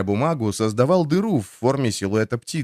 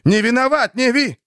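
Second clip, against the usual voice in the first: higher, louder, breaking into sobs; sobbing cry; 12 semitones higher, 4 dB louder than usual. A narrator's reading. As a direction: plead through tears, voice breaking. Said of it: "Плача".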